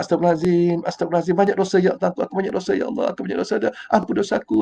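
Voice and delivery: hushed, humble plea for forgiveness; quiet repentant istighfar. Shown as a demonstration. Ustaz shows how to recite istighfar, hushed. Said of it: "Baca istighfar".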